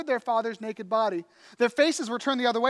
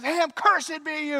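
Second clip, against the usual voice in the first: raised, drawn-out curse; slow, higher-pitched retold outburst; mock scream; 6 semitones higher, 4 dB louder, slower than usual. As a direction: act out an angry father's curse. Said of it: "he's screaming at him".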